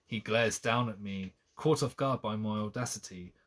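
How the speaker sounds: measured novel reading; storybook delivery with understated character lines; story narration. A narrator's reading. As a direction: read the romance aloud, dialogue lightly acted. Reads the novel aloud.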